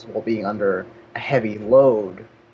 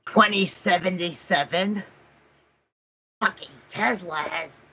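higher-pitched indignant game reviewer voice; 6 semitones higher than usual. Acted. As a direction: do an exasperated angry reviewer, pitched up. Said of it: "A V G N gets uploaded".

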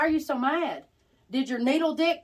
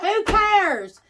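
mock dismissive; 8 semitones higher, 6 dB louder than usual. Mocking a dating-app match.

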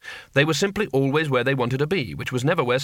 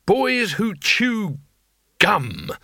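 slow, higher, strained scream; mock scream; 7 semitones higher, much slower than usual. A narrator's reading. Angry teacher Saveloy lists pet hates to Cohen, slow furious scream. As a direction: spit out the hated thing in rage. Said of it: "screamed Mister Saveloy".

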